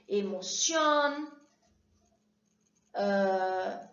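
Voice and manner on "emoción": emoción said slowly in Spanish, e-mo-ci-ON; Spanish teacher modelling emoción; Spanish word emoción. Shown as a demonstration. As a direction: model emoción in Spanish, stress on the last syllable. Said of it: "por exemplo".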